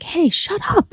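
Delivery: reliving losing it at the barking dog; retold snap at the dog. Mother retelling yelling at her dog, a high mock yell. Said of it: "lost it a little bit".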